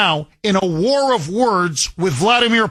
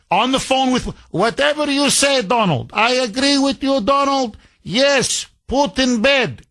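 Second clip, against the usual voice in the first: higher, fawning mock Ukrainian voice; higher pleading Zelensky voice, hammed up; mocking Zelensky impression; 5 semitones higher than usual. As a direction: suck up to Donald in a put-on accent. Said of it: "All you say is".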